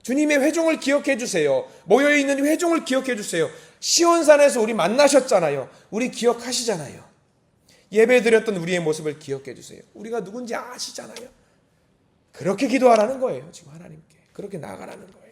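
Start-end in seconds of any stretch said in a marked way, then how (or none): 0.0-11.3 high, insistent pleading; fervent prayer. Acted. Congregation begging God to remember them, fervent high pleading. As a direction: implore with full conviction, easing toward the end. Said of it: "하나님께서 그렇게 기도하라고".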